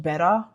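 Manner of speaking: "Beta" said as BET-uh, questioningly; trying out pronunciation. Shown as a demonstration. Creator unsure how English says "Beta", trying out BET-uh. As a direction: test "Beta" with a short e, as a question. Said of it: "don't even know how to pronounce".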